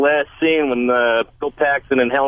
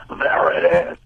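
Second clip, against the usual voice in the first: storm chaser shout; 5 semitones higher, slower than usual. Retold or imitated.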